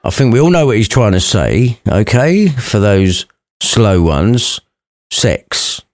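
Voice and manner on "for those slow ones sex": slow, then whisper sex; slow reveal. Real, not acted. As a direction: drag it out, then drop to a whisper. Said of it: "deliberate slow reveal".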